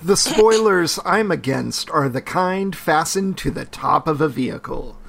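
half-hearted attempt at Southern; lightly put-on Southern accent; weak Southern accent. Co-host joins the nascar bit, poor Southern accent. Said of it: "you can do a better Southern accent".

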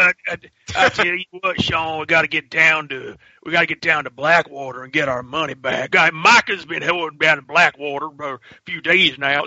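a lightly voiced drawling cowboy from the game; Red Dead cowboy voice. Quoting the game's hero to his co-host, a light cowboy voice. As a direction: ease into a hint of the game's outlaw hero. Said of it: "that's how the main character talks".

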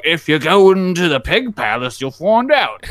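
high, ominous simple villager; hint at the secret in a high simpleton voice. Retold or imitated. Simpleton hinting at the pig palace, in a high simpleton voice. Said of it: "talk to the simpleton".

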